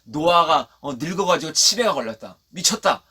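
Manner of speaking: loud, jeering put-down; mocking. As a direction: imitate a crowd ridiculing an old man. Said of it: "조롱했다는 거예요".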